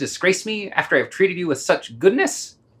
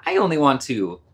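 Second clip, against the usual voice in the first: falsely sweet. Acted. Master coaxes the dog.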